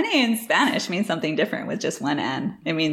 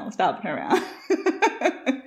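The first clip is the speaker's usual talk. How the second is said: slow it right down, laughing; slow drawn-out repeat; slower than usual. Shown as a demonstration. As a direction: stretch each word out. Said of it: "repeated slower".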